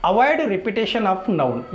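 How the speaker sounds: drawn out, every word separate; slow dictation. Shown as a demonstration. Teacher explaining why pronouns exist, slow dictation. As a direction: say it slowly so students can write it. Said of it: "प्रोनाउंस क्यों use करना".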